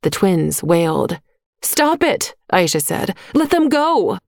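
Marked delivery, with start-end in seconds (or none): 1.6-2.3 high, urgent plea to stop; pleading protest. A narrator's reading. Twins dragged away, Aisha protests. 3.3-4.2 high, urgent plea to stop; pleading protest. A narrator's reading. Twins dragged away, Aisha protests.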